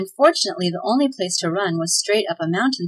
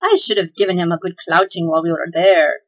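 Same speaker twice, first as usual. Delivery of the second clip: blustering elf; 2 semitones lower, 4 dB louder than usual. Acted. Elf blusters after fright.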